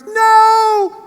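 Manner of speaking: put-on high, loud panicked child's cry; a little boy yelling in alarm; child's scream. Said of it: "little Mirmir goes".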